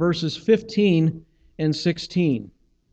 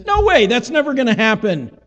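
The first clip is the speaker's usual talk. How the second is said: mild protest; 6 semitones higher, 4 dB louder than usual. Acted. Peter's protest acted in sermon.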